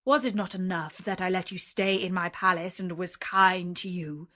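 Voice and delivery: menacing beast, rage rising to a loud roar; terrible beast voice. Acted. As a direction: bellow at the thief who picked your roses. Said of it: "said in a terrible voice".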